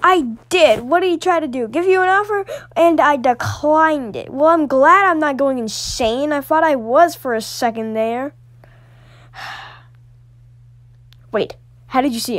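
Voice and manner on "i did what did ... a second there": excited relief. Acted. Relieved, excited talk about stranger.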